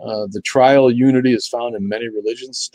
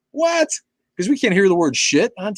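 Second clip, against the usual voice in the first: much higher, indignant what; incredulous; 11 semitones higher than usual. Real, not acted. Reacting to TV censorship, much higher and incredulous. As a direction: scoff in disbelief. Outraged disbelief.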